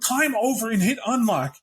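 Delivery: high-pitched urgent cop telling someone to calm down; cop outside the car. Acted. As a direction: pitch way up as a rattled cop coaching someone through the locks.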